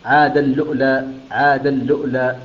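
"عاد اللؤلؤ" with the tanween merged into a doubled lam and a sukun hamza where the waw stands; "عاد اللؤلؤ": ʕād-alluʔlā with a doubled l, no hamza before the lam; Qalun recitation demo. Shown as a demonstration. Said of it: "فيقرأها".

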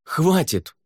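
sharp high shout. Acted. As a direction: cut them off with a yell. Savier loses patience with lords.

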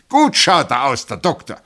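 high, loud colonel's bellow; booming shout. A narrator's reading. Colonel praises the doctor to the whole room, shouting. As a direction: shout it so the glasses rattle. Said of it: "Er schrie, dass die Gläser zitterten".

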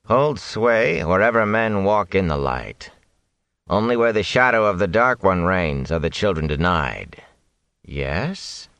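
a hint of a sneering zealot; lightly voiced cold zealot. Whitecloak voiced in story.

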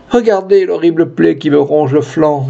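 mildly acted cry of suffering; cries of pain. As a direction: wretch pleading in pain, held back. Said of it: "en poussant des cris de douleur".

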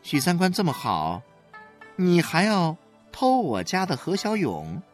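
cold retort. A narrator's reading. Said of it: "他冷冷地说".

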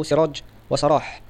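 سراج said slowly ending in jim, then سراح ending in ha; careful name pronunciation. Shown as a demonstration. Teacher to students contrasting two names, slow and careful. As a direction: spell out سراج وسراح slowly, sharpening the final jim versus ha. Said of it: "الأول بكسر السين المهملة وبالجيم".

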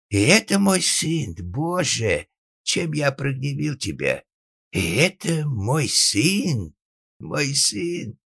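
high, slow theatrical wail; anguished lament. Acted. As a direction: draw out a father's grief to heaven. Father laments his son to God.

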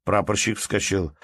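usual speaking voice

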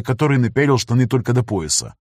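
ordinary delivery, nothing marked

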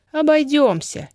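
high, firm declaration; confident. A narrator's reading. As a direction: settle it with certainty. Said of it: "уверенно заявила Даша".

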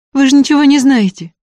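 high, hot outburst of protest; heated shout. A narrator's reading. Varya flaring at the student, high heated cry. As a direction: flare up and cut him off. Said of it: "запальчиво закричала Варя".

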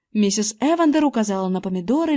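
ordinary delivery

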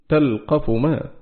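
تلقف ما said slowly, the lam in تلقف with sukun and no shadda; تلقف ما with a still, unstressed lam; slow recited demo. Shown as a demonstration. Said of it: "بإسكان اللام مخففا".

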